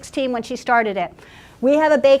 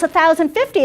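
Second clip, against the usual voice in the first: yelled bid; 6 semitones higher, 4 dB louder than usual. Retold or imitated. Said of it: "And Connie yells".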